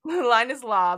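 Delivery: loud, proud proclamation; proclaiming oath. Retold or imitated. Sel swearing to the king, loud proclamation. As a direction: declare it like sworn law. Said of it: "He says".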